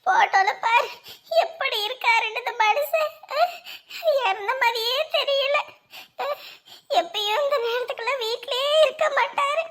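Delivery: tearful, sobbing through the words; weeping. Acted. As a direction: cry as you speak of him. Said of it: "அழாதீங்க".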